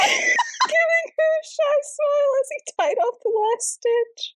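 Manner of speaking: high laughing read; reading aloud through laughter. Real, not acted. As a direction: fight back laughter while reading.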